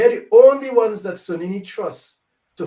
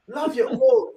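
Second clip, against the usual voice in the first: "Love your own" lifted much higher, rising on "own"; high rising repeat; 9 semitones higher than usual. Real, not acted. Elder repeating his plea to his people, high and rising. Second take rises high.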